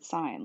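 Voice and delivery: "sign" with a long i, as in stop sign; careful teacher's model of "sign"; pronunciation demo. Shown as a demonstration. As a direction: say "sign" to rhyme with "line". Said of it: "it's pronounced like the word".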